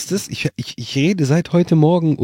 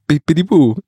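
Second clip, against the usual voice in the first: laughing; 3 semitones higher, 3 dB louder than usual. Pretend. Laughing silly reply.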